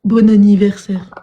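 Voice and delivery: slow, drawn-out, lazy birthday wish; mock schlag greeting. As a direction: say it like a careless low-effort greeting. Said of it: "c'est les schlags qui disent joyeux anniversaire comme ça".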